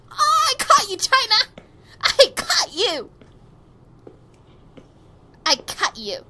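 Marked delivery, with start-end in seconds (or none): 0.1-1.7 high, loud cry with a laugh; loud exclamation. Acted. Catcher calling to China on catching them, high excited shout. 2.0-3.1 slow, high, loud cry; loud exclamation. Acted. Catcher calling to China on catching them, slow high shout. Same line cried out, then calmer.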